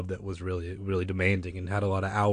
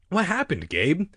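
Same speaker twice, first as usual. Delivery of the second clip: raised, higher questioning call; calling from below; 8 semitones higher, 3 dB louder than usual. A narrator's reading. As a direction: call up with concern. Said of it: "Uncle Ben called from the tunnel floor below".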